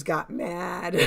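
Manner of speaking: real laughter bubbling in the words; laughing. Real, not acted. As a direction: giggle while telling it. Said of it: "Sorry, I'm laughing".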